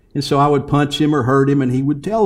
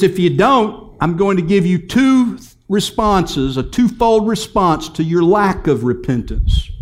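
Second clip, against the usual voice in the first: raised, higher preaching voice; higher-pitched pulpit declaration; emphatic warning; 6 semitones higher, 3 dB louder than usual. Acted. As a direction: deliver a slow-building, insistent warning.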